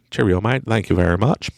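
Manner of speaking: put-on butchered British accent; bad English accent. Greeting listeners in England, badly faked English accent. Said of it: "That's not a good accent. I'm sorry. I butchered that".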